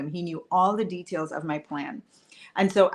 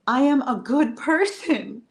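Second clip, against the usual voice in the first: higher, wounded protest to herself; indignant self-talk; 4 semitones higher than usual. Retold or imitated. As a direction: plead her own case, pitched up. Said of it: "all the things we say to ourselves".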